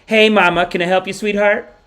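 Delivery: put-on caring nurse voice; imitating a nurse. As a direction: call out sweetly like an attentive nurse. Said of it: "She comes in like".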